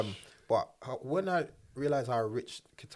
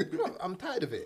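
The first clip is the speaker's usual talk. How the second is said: laughing exasperation; 7 semitones higher than usual. Real, not acted. Laughing, fed up with requests.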